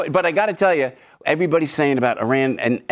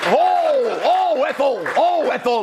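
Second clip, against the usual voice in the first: higher exasperated sitcom husband whine; Fred Mertz impression; 10 semitones higher, slower than usual. Comic mimics Fred Mertz calling his wife, higher whine. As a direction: moan it like a fed-up sitcom husband. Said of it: "the guy in I Love Lucy".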